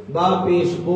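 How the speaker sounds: बो with an o sound in place of u; common mistake demo. Shown as a demonstration. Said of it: "बो कर देते हैं". (गलत: बू की जगह बो)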